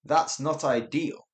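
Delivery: slow, understated British displeasure; poised and ambiguous; polite restraint. Shown as a demonstration. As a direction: hide the anger behind politeness. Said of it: "instead of saying, "I'm angry".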